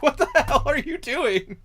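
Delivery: high, loud, laughing incredulity; mock disbelief. Viewer reacting to the bad dub, laughing disbelief. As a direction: burst out baffled through a laugh.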